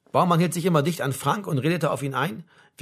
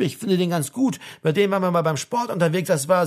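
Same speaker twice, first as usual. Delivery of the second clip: chattering comrade; 3 semitones higher than usual. Acted. Baumann rattles on to Frank on the bus, chattering. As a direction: keep rambling on to your mate.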